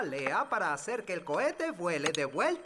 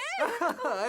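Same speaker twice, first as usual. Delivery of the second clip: high mischievous chuckle; cheeky elf giggle; gleeful laugh; 11 semitones higher than usual. Acted. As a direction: laugh at your own joke. Elf laughing at his prank.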